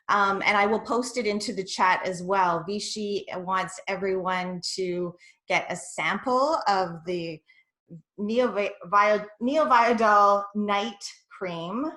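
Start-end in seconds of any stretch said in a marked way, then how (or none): 2.7-11.9 a little out of breath, stumbling over words; catching my breath. Real, not acted. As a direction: still catching breath after a rush. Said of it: "I'm just kinda catching my breath".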